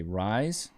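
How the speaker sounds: "rise" said slowly on its own as a teaching word; Australian pronunciation lesson. Shown as a demonstration. Teaching chat to speak Australian, "rise" set out deliberately. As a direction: sound out "rise" clearly for learners. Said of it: "Here's how you say razor blades".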